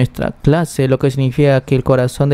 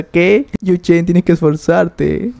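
panicked teacher; 5 semitones higher, much slower than usual. A narrator's reading. Teacher panics at director's threat.

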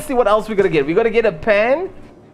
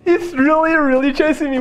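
being chased; 5 semitones higher than usual. Real, not acted. Being chased, reports to viewers.

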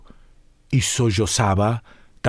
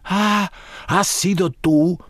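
higher, slow grin with teeth; ferocious smiling colonel; fierce smile; 7 semitones higher than usual. A narrator's reading. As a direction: smile it out fiercely, like a threat dressed as a joke. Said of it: "sonriendo ferozmente".

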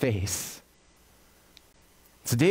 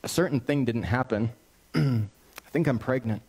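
sheepish confession. Retold or imitated. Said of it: "she comes back ... and says".

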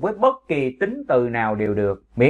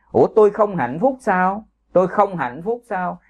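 mock surprise; 5 semitones higher than usual. Shown as a demonstration. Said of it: "hỏi một cách mỉa mai".

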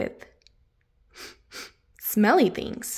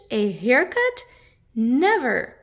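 indignant refusal; 4 dB louder, slower than usual. Acted. Hamish refusing haircut.

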